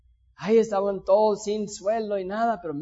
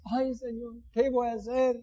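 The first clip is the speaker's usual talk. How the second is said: softer worried sigh, "Ay, Señor"; mock lament; 2 semitones higher, 4 dB quieter than usual. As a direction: mutter the worry half to yourself. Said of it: "Qué dramático". (lamento burlón en voz baja)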